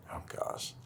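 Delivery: choked-up murmur breaking into a laugh; getting emotional. Real, not acted. Podcast host caught off guard by talk of love, getting emotional. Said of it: "I don't know why I'm getting emotional".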